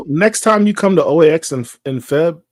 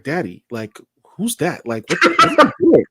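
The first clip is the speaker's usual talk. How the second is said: daughter's voice. Retold or imitated. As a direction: play the daughter, giggling. Daughter voiced in car story.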